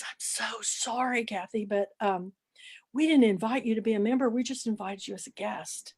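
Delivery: imitating a hostess's embarrassed whisper; retold whisper.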